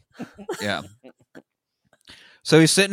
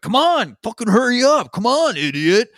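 higher, pushy heckling; impatient; 9 semitones higher than usual. Retold or imitated. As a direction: hurry him up, annoyed. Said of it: "everybody in the line behind him's like".

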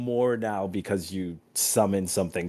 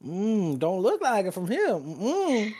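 taunting villain; 9 semitones higher, slower than usual. Acted. Servant taunting continues.

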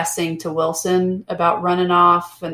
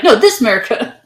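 mock patriotic cry; 5 semitones higher, 7 dB louder, faster than usual.

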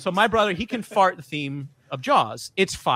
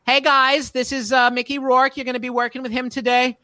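acted crew introduction; 5 semitones higher than usual. Crew member presents Mickey Rourke to the boys, raised voice. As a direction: introduce a star to a group.

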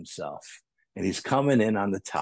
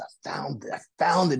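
excited shout; 3 semitones higher than usual. Retold or imitated. Cousin shouting his discovery from the water, excited. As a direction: call it out like a thrilled kid. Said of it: "he's really excited".

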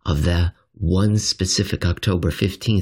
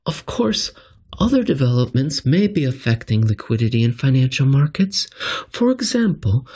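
higher, lightly voiced Fed governor reading her statement; a hint of an official speaker, pitched up; quoting the Fed governor; 6 semitones higher than usual. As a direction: read her words a bit higher, like her own voice. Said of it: "She continued".

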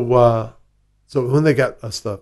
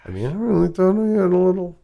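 rueful whisper; whispered regret; 8 semitones higher, faster than usual. Real, not acted. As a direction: breathe it out sheepishly. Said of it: "whispered rueful aside".

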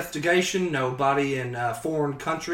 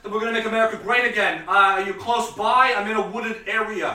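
Donald Trump; 7 semitones higher, 4 dB louder than usual. Acted. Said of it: "Donald Trump here".

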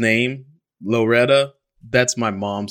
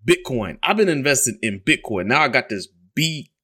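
imitating dad angry; 6 semitones higher than usual. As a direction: rant up high like the baffled dad. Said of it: "And he's like".

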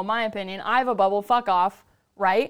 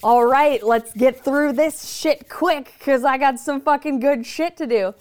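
louder, brisk get-it-over-with push; impatient resolve; 3 dB louder, slower than usual. Retold or imitated. Facing karma, loud and impatient to move on. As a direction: roll up your sleeves and push through.

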